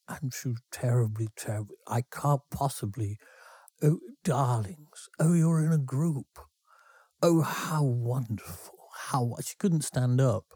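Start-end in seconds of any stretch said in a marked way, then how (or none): 1.9-9.4 a hint of a gin-soaked old lady cooing at the band; tipsy landlady. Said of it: "she was called Missus Ridges".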